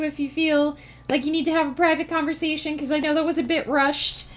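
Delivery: gurgly sea creature voice; octopus voice. Pretend. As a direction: talk like a goofy octopus. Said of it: "This is my octopus voice".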